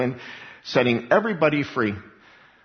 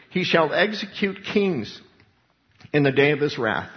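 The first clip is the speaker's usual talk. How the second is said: raised, slowed proclamation of judgment; proclaiming scripture; 3 semitones higher than usual. Acted. Quoting Father's judgment decree.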